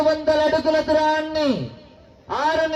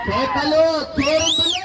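rousing crowd call; 3 semitones higher than usual. Real, not acted. Calling for cheers from the crowd.

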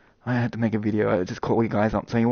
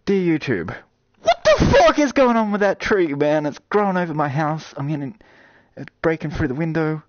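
higher, louder mock plea to a god; praying to YouTube; 6 semitones higher, 5 dB louder than usual. Streamer pleading with YouTube as if God, mock prayer. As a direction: beg YouTube like it's an almighty god. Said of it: "Sometimes I talk to YouTube like this, like it's God".

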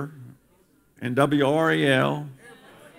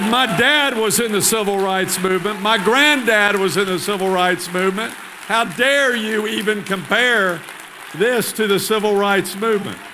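indignant rebuke; 5 semitones higher than usual. Retold or imitated. Thomas rebuking the visitor about civil rights, indignant. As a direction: lean on each word, outraged on his behalf.

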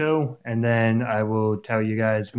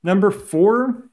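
high, slow announcement; announcer voice; 9 semitones higher, 4 dB louder, slower than usual. Real, not acted. Announcing ranking.

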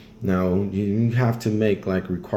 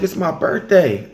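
high, louder cheerful announcement; cheerful girl voice; 8 semitones higher, 5 dB louder than usual. Retold or imitated. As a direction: announce it gaily in a put-on voice. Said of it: "She's like".

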